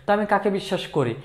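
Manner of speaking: fast, fed-up question; annoyed. Shown as a demonstration. Boss who was cheated with money, mildly annoyed. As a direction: toss it off in mild frustration. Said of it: "এখন বিরক্তভাবে".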